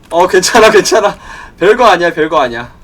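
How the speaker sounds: forced-calm shouting; loud self-reassurance. Real, not acted. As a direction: talk yourself down from panic. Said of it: "아무것도 아니야".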